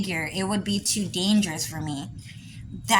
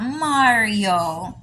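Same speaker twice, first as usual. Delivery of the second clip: mock Italian accent. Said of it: "they just stylized Mario's voice".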